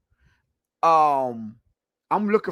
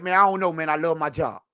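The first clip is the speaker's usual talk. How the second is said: low-key, softer imitation of a noncommittal player; retold noncommittal answer; 5 semitones lower, 3 dB quieter than usual. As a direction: toss off the quoted dodge quietly, all run together. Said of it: "he was like".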